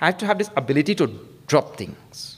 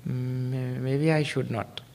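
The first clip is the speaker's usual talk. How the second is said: hesitant doubt; 6 dB quieter, much slower than usual. Retold or imitated. Hesitant youngster voiced.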